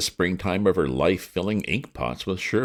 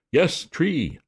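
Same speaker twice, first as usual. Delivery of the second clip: gruff policeman; 13 semitones higher, 3 dB louder than usual. A narrator's reading. Policeman questions Bertie.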